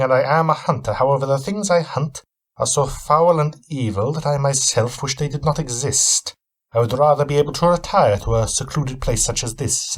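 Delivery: a touch of guarded suspicion; Van Helsing. Acted. Weary traveller answering his host, lightly voiced wary reply.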